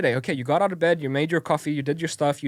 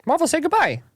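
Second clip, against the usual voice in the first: higher coaxing voice; baby talk; 11 semitones higher, 3 dB louder than usual. Acted. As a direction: coax the baby, high.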